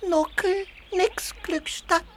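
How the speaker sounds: crying no; weepy protest, voice breaking; tearful refusal. Acted. Baby refuses to go, upset.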